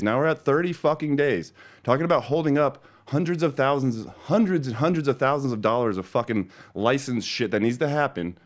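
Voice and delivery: heated, rising complaint; angry rant. Real, not acted. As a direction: rant it out, fed up. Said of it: "End of rant".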